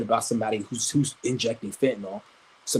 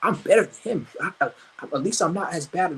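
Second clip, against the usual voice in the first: higher mocking voice of an offended hater; mock smug voice; 6 semitones higher than usual. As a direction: play a smug hater puffing himself up. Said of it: "They're like".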